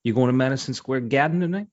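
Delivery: mock New York tough-guy question; lightly hammed movie mobster; Robert De Niro. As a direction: put on a wise-guy New York accent. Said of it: "Think of, like, Robert De Niro".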